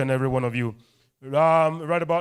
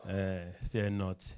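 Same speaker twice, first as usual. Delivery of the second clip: hushed fear not; 8 semitones lower, 11 dB quieter, slower than usual. Shown as a demonstration. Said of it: "Help me tell bes-, person beside you, say".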